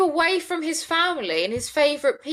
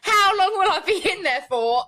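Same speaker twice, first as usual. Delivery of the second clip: laughing mockery; 4 semitones higher than usual. Mocking repeat of her question.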